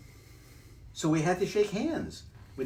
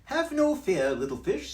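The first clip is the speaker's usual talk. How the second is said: high, bouncy cheeky cat; cat's voice; 8 semitones higher, 7 dB louder than usual. Acted. Cat in the hat teasing the fish, high and loud. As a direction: brush off the fish, playful.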